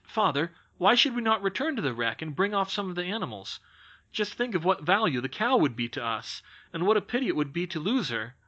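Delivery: a keen son pleading with his father; mildly voiced excited lad; eager boy Fritz. Fritz's long eager speech.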